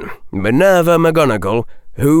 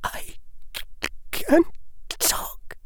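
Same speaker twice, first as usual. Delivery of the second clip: whisper; 11 dB quieter, slower than usual. A narrator's reading. Hermione whispering after the trial.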